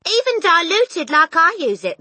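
high, loud insistent wife; loud warning. A narrator's reading. Mother to husband, loud warning voice. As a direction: press the warning loudly.

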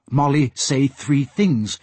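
slow, drawn-out pidgin words; lightly voiced porpoise, each word drawn out; porpoise speech. Porpoise reporting to Asta, slow porpoise speech.

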